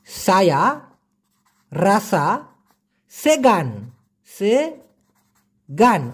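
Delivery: halting, pausing mock-nervous answer with a long drawn-out সেগান; lightly acted jitters, very slow. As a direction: stumble out সায়া রাসা সেগান like a scared employee. Learner nervous before the boss.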